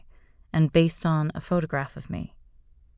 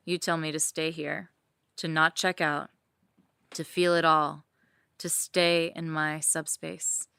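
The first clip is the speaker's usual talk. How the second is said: sensual story narration; 5 dB quieter than usual. A narrator's reading. Reading her fantasy to listeners, intimate narration.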